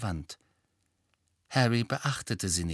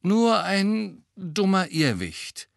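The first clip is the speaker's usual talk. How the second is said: soothing; 10 semitones higher, 5 dB louder, slower than usual. A narrator's reading. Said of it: "tröstete er sie".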